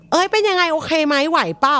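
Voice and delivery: mock worried friend. Friend checking on a heartbroken person, mock fussy concern. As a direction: pester them with concern.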